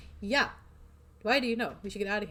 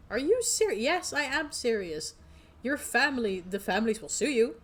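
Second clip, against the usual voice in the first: high, louder disbelief; incredulous companion; 3 semitones higher, 6 dB louder than usual. Acted. Tabitha arguing with the player, incredulous and loud. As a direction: push back in disbelief.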